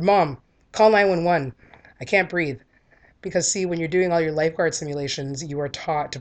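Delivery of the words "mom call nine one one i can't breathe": loud, slow, pointed command; urgent retold call for help. To her mom before collapsing, a loud slow urgent call.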